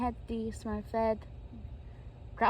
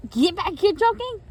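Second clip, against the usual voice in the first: high, loud chasing shout; high-pitched urgent call; 9 semitones higher, 11 dB louder than usual. Acted. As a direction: shout after someone running off. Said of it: "And you said".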